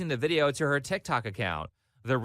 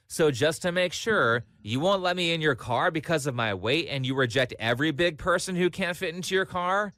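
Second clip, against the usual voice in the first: mimicking her; 4 semitones higher than usual. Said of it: "The way she repeats questions like".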